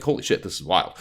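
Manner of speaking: amazed with a laugh. Retold or imitated. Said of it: "like, immediately like".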